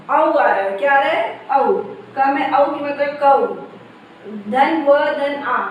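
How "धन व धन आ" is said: slow spelling. Shown as a demonstration. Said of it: "यानी व में आ की मात्रा".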